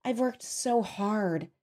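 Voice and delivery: soft, very slow musing; dreamy. A narrator's reading. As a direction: murmur it slowly, lost in thought. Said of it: "she said dreamily".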